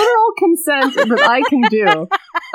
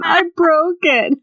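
slow, higher mock sob; hammed-up tearful whimper; choked out; 6 semitones higher, slower than usual. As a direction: choke it out like crying. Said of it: "he choked out".

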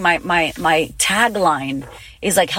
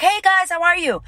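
much higher, mock bubbly vlogger hello; fake cheerful greeting; 10 semitones higher than usual. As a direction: chirp it like a forced-happy influencer. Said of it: "you don't wanna be like".

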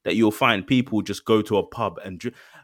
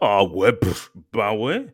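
casual French parent shrugging it off, slow; a French parent's offhand yes, drawn out; lightly voiced French parent, slow; 2 semitones lower, slower than usual. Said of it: "the parent would be like".

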